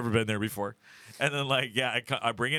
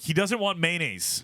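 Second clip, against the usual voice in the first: slow, higher, emphatic protest; firm refusal; 6 semitones higher, slower than usual. Retold or imitated. Answering the deli server for Maddie, firm refusal. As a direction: step in firmly for a friend, drawing it out. Firmly refusing waiter on friend's behalf.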